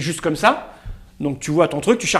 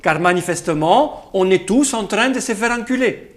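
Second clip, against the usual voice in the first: put-on Russian accent. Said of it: "Avec un accent russe".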